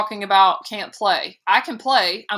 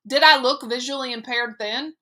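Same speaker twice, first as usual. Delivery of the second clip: protesting; 6 semitones higher than usual. A narrator's reading. Boy protesting to mother.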